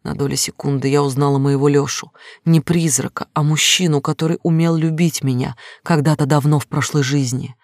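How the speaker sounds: ordinary delivery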